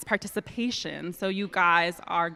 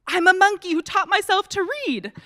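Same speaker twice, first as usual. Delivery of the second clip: laughing; 8 semitones higher, 7 dB louder than usual. Pretend. Forced to read silly line.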